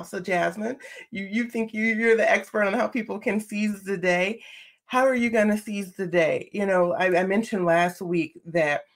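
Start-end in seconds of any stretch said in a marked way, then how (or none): 0.0-6.5 talking to herself. Retold or imitated. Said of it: "I'm talking to myself now".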